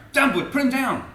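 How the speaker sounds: high, loud, theatrical order; angry command. A narrator's reading. Keeper ordering the lion to drop Jim, angry shout. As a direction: shout it at a disobedient animal. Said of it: "he cried with angry frown".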